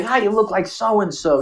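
high, drawn-out mock greeting; put-on voice of people spotting a lookalike; mimicking people. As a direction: imitate an annoying acquaintance, slow and high. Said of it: "when people say".

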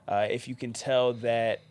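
stuffy, blocked-nose voice; talking through allergies, nasal. Real, not acted. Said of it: "the nasally sound of my voice".

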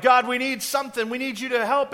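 crying out to God. Retold or imitated. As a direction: call out to God for help, urgently. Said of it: "They're crying out".

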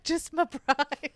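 dry deadpan. Retold or imitated. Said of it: "I was like".

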